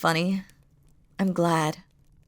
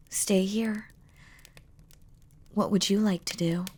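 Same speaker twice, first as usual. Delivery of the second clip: intimate breathy whisper. Acted. Demon lover tempting his beloved to stay, whispered. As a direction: tempt them to stay, barely voiced.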